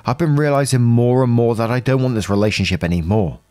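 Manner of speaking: evenly paced read-aloud of a personal post; story narration. A narrator's reading. Narrator reading out someone's post about a troubled relationship, story narration. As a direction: read it out as a first-person account.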